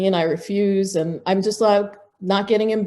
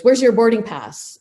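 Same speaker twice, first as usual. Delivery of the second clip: accusing demand; 4 semitones higher, 5 dB louder than usual. Retold or imitated. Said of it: "like I'm a little criminal".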